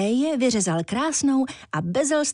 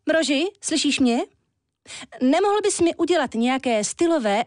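put-on higher, pert voice of a vain young woman ordering a pet; lightly voiced demanding Éja, raised pitch; spoiled woman; 5 semitones higher than usual. Éja calls up to the Walrus for a stylish fox, demanding and pert.

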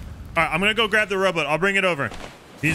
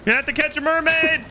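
much higher, playful teasing shout; teasing high call; 12 semitones higher than usual. Acted. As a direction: tease him as he floats away.

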